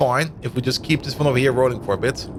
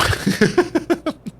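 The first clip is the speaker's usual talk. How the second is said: high giggle; 12 semitones higher than usual. Real, not acted. Laughs at fish oil use.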